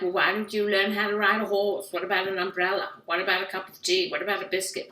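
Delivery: brisk mock-English suggestions; chirpy caricatured English voice; English accent. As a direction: offer remedies in a put-on English accent. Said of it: "'cause they're English. And they're like".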